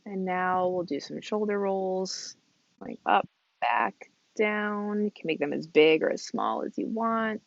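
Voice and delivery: calm, unhurried mindfulness instruction; guided movement. Real, not acted. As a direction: guide them gently through breath and stretch, leaving space. Leads mindful movement and breathing.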